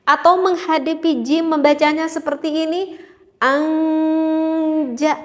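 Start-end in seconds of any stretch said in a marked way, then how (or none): 3.4-5.1 anja with a back ng before j, rising; wrong hidden nun in anja; wrong ikhfa. Shown as a demonstration. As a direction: say anja with an ng sound. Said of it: "kurang tepat juga".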